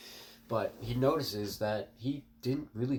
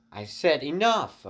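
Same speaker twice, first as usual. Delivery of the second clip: slow, loud and higher warning; angry warning; 7 semitones higher, 7 dB louder, slower than usual. Acted. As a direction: put your foot down hard. Deku finally snaps at bullies.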